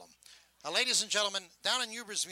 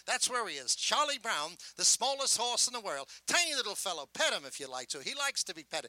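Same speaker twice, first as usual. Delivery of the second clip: sideshow tape barker; 5 semitones higher than usual. Shown as a demonstration. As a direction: sell the tiny horse to passers-by. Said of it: "this is how the three-minute tape on that end".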